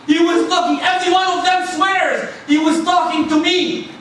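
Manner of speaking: high, impassioned preaching; fervent amazement. Real, not acted. Preacher marvelling at the Prophet's attention, fervent.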